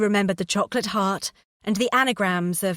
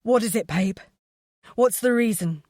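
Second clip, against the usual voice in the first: frantic; 2 semitones higher than usual. A narrator's reading. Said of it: "He sounded frantic".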